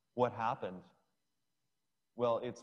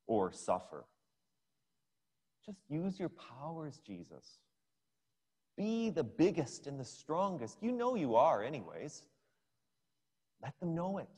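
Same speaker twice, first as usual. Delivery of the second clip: tempter's voice; 2 semitones higher than usual. Retold or imitated. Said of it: "said the devil".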